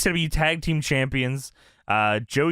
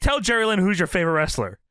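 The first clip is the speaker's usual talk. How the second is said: voicing Cyrus; 5 semitones higher than usual. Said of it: "Cyrus turns to him and he says".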